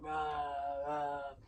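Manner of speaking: low, drawn-out "rah" roar; big brute's roar, not shouted; mock monster roar. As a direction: imitate a lumbering monster roaring. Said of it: "come through a doorway and be like".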